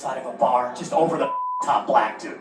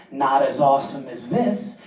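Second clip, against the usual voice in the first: slow smooth line; 3 dB louder, slower than usual. Retold or imitated. Cheesy proposal line.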